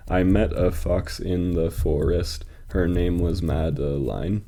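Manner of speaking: slow, measured verse recital; deliberate metrical reading; poem reading. Acted. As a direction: read slowly so each beat can be counted. Reads poem aloud.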